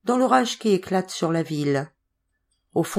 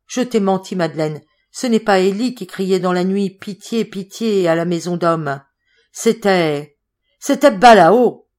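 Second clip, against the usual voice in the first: tags 1; 6 dB louder than usual. Acted. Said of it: "cette voix épouvantable".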